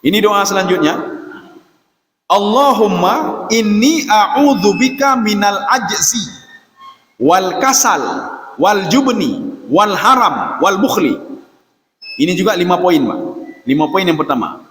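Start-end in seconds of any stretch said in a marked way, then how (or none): 2.3-11.2 slow, measured Arabic prayer; prayer recitation. Shown as a demonstration. Preacher recites the Prophet's prayer to the congregation, slow reverent recitation. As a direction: recite each word slowly and reverently.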